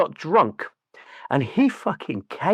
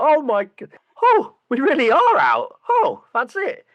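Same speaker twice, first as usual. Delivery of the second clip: mock crying; 11 semitones higher than usual. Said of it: "Alan Ball crying".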